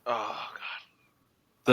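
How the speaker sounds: breathy low whisper of dread. Real, not acted. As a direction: mutter it under your breath in horror. Dreading the rematch memory.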